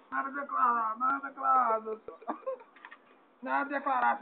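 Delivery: lightly put-on duck voice; a hint of a cartoon duck. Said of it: "vou fazer a voz de pato aí". (voz de pato leve)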